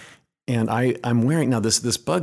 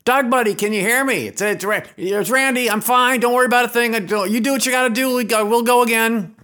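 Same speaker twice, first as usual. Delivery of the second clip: calling from afar; 12 semitones higher than usual. Retold or imitated. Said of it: "I hear from over the, across the cave".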